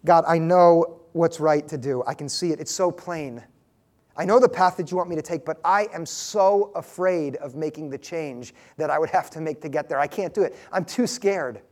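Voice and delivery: a hint of a scared believer; sample prayer. Shown as a demonstration. Preacher modelling a frightened prayer, understated fear.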